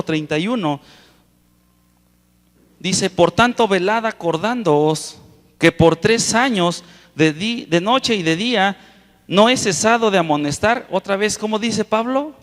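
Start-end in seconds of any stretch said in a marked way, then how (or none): 3.1-10.9 higher, slow, measured Bible reading; scripture reading. Acted. Preacher reads Paul's words to the brethren, slow scripture reading. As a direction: read the verse out slowly to a congregation.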